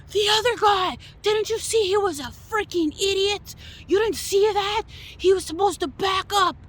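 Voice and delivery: mocking angry man. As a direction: parody his self-righteous rant. Voicing the angry man's rant.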